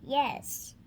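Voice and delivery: a real hushed whisper, no voice. Real, not acted. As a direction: whisper yes so nobody hears. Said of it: "so you should stay quiet".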